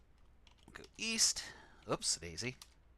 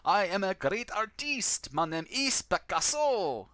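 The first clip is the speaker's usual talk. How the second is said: slow, higher, pompous grand-artist voice; Picasso voice; 7 semitones higher, 4 dB louder, slower than usual. Acted. Game narrator voicing Picasso to the player, slow and grandly higher. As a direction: announce yourself as a self-important artist. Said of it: "He looks up".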